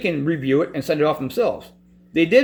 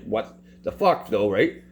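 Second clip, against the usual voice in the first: much lower and slower, dry and unimpressed; advocate's real reaction; 10 semitones lower, 4 dB quieter, slower than usual. Retold or imitated. Advocate reacting to the denied application, low dry disbelief. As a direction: say it flat and knowing, no drama. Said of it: "She was obviously just like".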